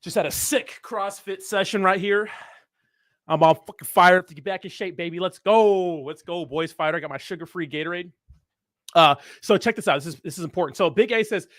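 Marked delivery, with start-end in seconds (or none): 0.0-6.7 frat bro. Acted. Hyped gym bro after workout.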